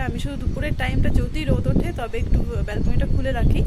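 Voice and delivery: ordinary talk, nothing marked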